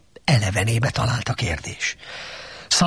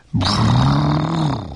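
louder ogre grumble; grumbling brrr; 4 dB louder than usual. A narrator's reading. Ogre grumbles at Donkey in his chair. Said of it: "morgott az Ogre".

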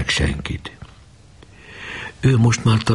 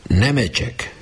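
close to tears; 7 semitones higher, slower than usual. A narrator's reading. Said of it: "már a torkán volt a sírás".

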